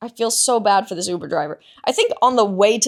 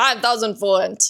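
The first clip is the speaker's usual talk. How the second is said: put-on Israeli-accented speech. Retell a guy's answer when asked how much to get in, imitating an Israeli accent. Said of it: "I'm doing an Israeli accent".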